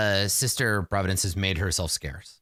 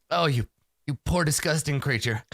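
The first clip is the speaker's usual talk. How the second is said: mildly acted, higher-pitched pity; disgusted pity; 4 semitones higher than usual. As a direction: falter between sympathy and revulsion. Sorcerer pities the patient.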